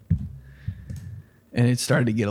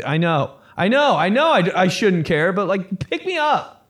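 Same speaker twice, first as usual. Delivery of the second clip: put-on high, whiny kid complaining to mom; upset kid; 6 semitones higher than usual. Kid phoning mom to leave the pool party, whiny upset. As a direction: whine it fast and high like a sulking kid.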